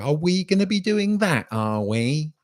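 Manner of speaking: high, put-on passive-aggressive needling; a pointed mock question with a loaded tag on the end. Host imitating a viewer's dig at him, passive aggressive. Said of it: "passive aggressive".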